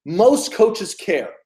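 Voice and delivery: slow emphasis. Shown as a demonstration. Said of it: "Write that down".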